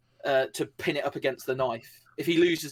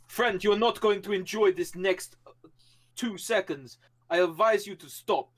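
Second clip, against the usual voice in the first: menacing character voice; 6 semitones higher than usual. Acted. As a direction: warn him coldly in a stranger's voice. Character threatens knife attacker.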